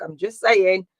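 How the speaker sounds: put-on light Yorkshire accent on I'm just saying; a playful touch of Yorkshire, tongue in cheek. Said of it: "That's my Yorkshire accent".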